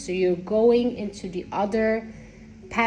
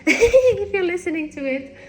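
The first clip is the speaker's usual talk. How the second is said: laughing; 9 semitones higher, 5 dB louder than usual. Real, not acted. Laughing aside to her beloved.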